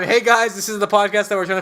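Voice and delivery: energetic host intro. Shown as a demonstration. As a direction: hype up the greeting. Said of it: "One more time".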